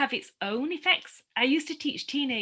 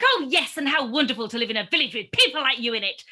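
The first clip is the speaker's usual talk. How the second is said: sarcastic yell back; 3 semitones higher, 7 dB louder than usual. Retold or imitated. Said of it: "I screamed back".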